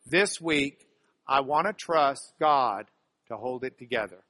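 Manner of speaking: fuller voice, firm start easing down at the end; leading group recitation. Shown as a demonstration. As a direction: lead the room in saying it together. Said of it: "Say it with me".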